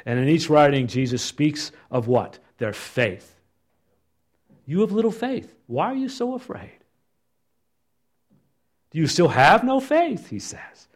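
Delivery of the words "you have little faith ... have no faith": higher, questioning rebuke; high reproach. Acted. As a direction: chide the disciples gently. Jesus voiced reproaching.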